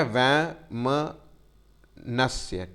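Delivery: वैमनस्य drawn out very slowly, syllable by syllable; slow spelling-out. Shown as a demonstration. Teacher to class, slowly giving the correct word. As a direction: stretch वैमनस्य for dictation. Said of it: "ये नहीं होता शब्द".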